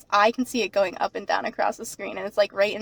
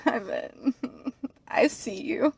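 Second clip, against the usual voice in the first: whispering; 2 semitones higher, 7 dB quieter than usual. Pretend. Whispered teasing aside.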